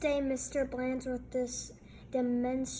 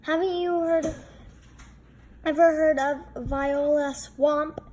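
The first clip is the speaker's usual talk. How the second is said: louder, spooky tease; ominous big kid; 4 semitones higher, 6 dB louder than usual. A narrator's reading. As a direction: tell it like a scary secret. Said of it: "said a big kid".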